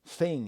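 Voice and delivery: "Thing" said as "fing"; TH fronting. Shown as a demonstration. Ruling out a Bristolian accent, "Thing" said as "fing". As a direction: put an F at the start of "Thing". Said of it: "replacing T H with F".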